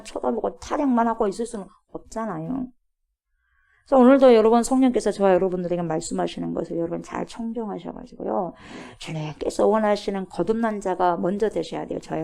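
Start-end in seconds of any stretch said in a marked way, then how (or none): none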